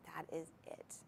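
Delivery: breathy unvoiced whisper, dropped right down; whispered aside. Real, not acted. Host whispering the clincher to viewers, hushed. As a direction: lean in and whisper it like a secret.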